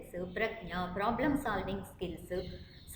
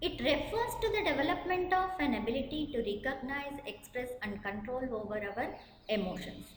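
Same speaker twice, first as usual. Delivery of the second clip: each word spelled out slowly for note-taking; slow dictation; much slower than usual. Acted. Teacher dictating a definition to students, slow and deliberate. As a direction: read it slowly so students can write.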